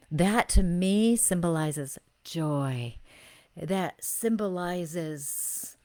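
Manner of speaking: slow, dreamy reading voice; slow mystical reading; psychic reading. Acted. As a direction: describe the vision slowly, savoring it.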